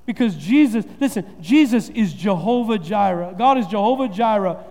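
slow, emphatic preaching cadence. Acted. Pastor drives the points home, slow and emphatic. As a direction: build each name like a sermon point.

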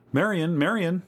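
high, alarmed repeated name; crying out. A narrator's reading. Louise to missing Marion, crying out in alarm. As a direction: cry out for the missing child. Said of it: "Louise cried out".

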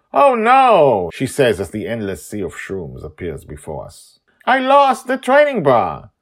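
high, loud exaggerated alarm; mock dismay. Joy pretending she lost the bra, high loud fake alarm. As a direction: ham up the fake panic.

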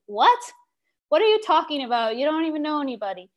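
high, fast mock disbelief; incredulous mom. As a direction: act out a mother's baffled outburst. Mother's disbelief, acted out.

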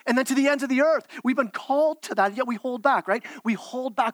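rising fervour. Real, not acted. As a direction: climb toward the eternity point. Preacher presses the mission call.

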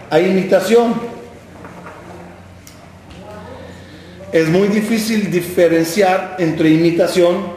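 a lightly voiced elderly father; old father. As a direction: hold the son back like a patient old dad. Father warns son.

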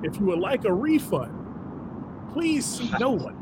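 formal stage announcer read. Shown as a demonstration. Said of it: "I get to do my announcer voice".

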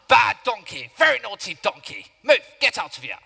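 loud, cross telling-off; scolding shout. Acted. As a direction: scold the donkey like a naughty pet. Balaam scolds his donkey.

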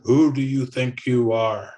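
low voice. Retold or imitated. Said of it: "in a low voice".

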